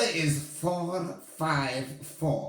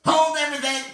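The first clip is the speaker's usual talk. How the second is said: high, loud witch shriek; 7 semitones higher, 5 dB louder, much faster than usual. Acted. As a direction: shriek across the ballroom. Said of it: "Her shrieking voice echoed".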